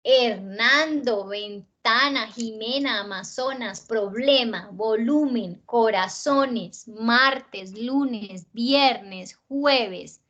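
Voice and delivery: "Hernando, ventana, Jimena" and the rest listed with the next-to-last syllable stretched; stress on penultimate syllables. Shown as a demonstration. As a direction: lean on NAN in "Hernando", TA in "ventana", likewise down the list. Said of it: "penúltima sílaba tiene el acento". ("Hernando, ventana, Jimena": lista marcando la penúltima sílaba)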